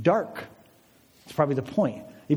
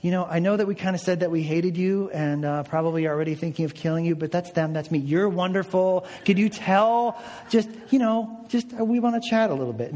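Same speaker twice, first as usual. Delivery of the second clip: flattering; 3 semitones higher than usual. Retold or imitated. Nicodemus to Jesus, trying to win him over, fawning. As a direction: lay the flattery on thick. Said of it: "just blowing smoke at Jesus".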